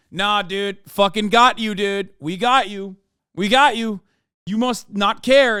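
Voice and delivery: hammed-up smug commenter; smug bro mockery. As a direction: gloat like a troll who thinks he won. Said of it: "They were just like".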